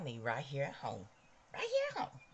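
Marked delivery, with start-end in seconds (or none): 1.5-2.2 playful brag. Real, not acted. Bragging about her husband's muscles.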